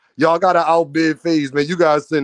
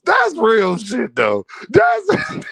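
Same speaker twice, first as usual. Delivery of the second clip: laughing; 6 semitones higher, much slower than usual. Real, not acted. Laughing hard.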